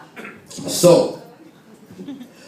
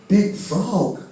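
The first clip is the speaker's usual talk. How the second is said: country Jiminy Cricket; 5 semitones higher, 4 dB quieter than usual. Acted. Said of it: "he's like Jiminy Cricket, but he sounds real country".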